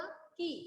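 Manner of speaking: "की" with a short, unstretched ई sound; short vowel. Shown as a demonstration. Teacher showing the vowel sign's sound, "की" kept short. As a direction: say "की" briefly, without lengthening the vowel. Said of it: "छोटा हुआ".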